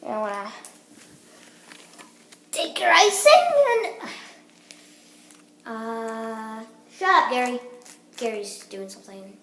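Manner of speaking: a light put-on English accent; fake English accent. Kid vlogger demoing toaster strudel in a mock English accent. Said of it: "Oh my God, my accent!".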